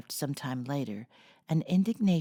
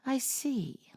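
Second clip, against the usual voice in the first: thoughtful musing; 7 semitones higher than usual. Acted. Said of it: "said Amy thoughtfully".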